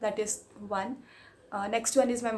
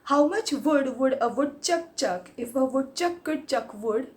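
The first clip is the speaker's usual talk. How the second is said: tongue twister recital. Shown as a demonstration. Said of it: "The third one".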